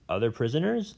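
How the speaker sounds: a lightly voiced old scholar, rambling and bitter; a hint of a cranky old professor holding forth; jailed old professor. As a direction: play the disgraced academic nursing his grudges. Professor echoes Lyra.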